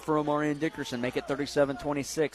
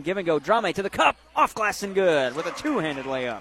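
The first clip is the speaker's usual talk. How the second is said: excited play call; 6 dB louder than usual. Real, not acted.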